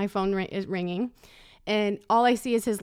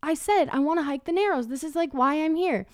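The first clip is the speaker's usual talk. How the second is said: mock protest; 6 semitones higher than usual. She objects to husband, retold.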